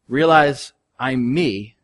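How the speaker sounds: ordinary talk, nothing marked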